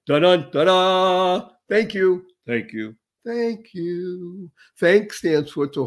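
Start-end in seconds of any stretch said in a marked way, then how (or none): 0.1-1.5 hummed trumpet fanfare, louder and slow; vocal fanfare. Pretend. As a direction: sing out a mock fanfare like a trumpet. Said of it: "drum roll, fanfare".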